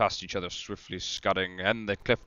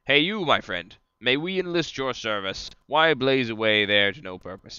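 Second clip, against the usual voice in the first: calling out louder to a distant light; 3 semitones higher, 3 dB louder than usual. Acted. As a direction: hail the far-off light. Hailing a distant will-o'-the-wisp.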